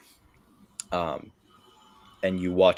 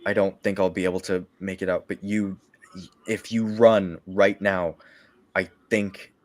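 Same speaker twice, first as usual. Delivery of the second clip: weak coughing knight. Acted. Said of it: "he's coughing".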